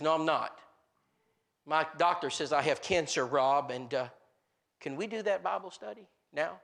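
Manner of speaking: subdued, halting sad voice; imitating tearful man. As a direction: gently act a crying man's confession, without sobs. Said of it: "And he's crying".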